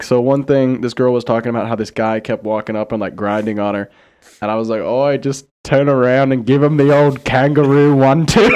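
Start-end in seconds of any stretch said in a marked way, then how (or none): 4.8-8.5 hammed-up Australian accent. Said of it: "so Australian".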